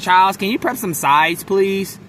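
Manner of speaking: mock her asking for a chore; female coworker. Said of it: "she was like".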